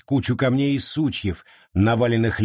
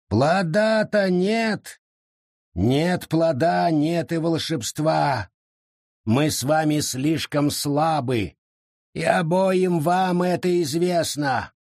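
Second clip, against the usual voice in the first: hopeless; 6 semitones higher, slower than usual. Acted. Forest argues hopelessly.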